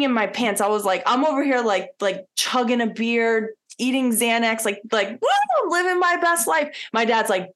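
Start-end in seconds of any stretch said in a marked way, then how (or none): 5.1-6.8 mock party woo. Mocking her partying self.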